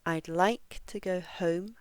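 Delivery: "like" and "home" long and strong, "to go" light; stress on LIKE, HOME. Shown as a demonstration. Teacher has learners listen, stress on "like" and "home". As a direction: lean on "like" and "home" in a steady beat. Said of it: "this stress stays in the same place".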